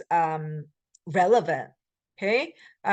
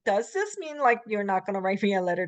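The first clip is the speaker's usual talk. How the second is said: softer; faster than usual. Shown as a demonstration. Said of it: "That's what it sounds like, little softer".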